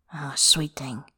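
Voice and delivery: hushed, low whisper; murmured. Acted. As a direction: murmur it tenderly under your breath. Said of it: "Bai murmurs".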